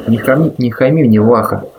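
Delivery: hard, cold warning; a hint of steel in the voice; harsh. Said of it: "жёстко сказал Шмель".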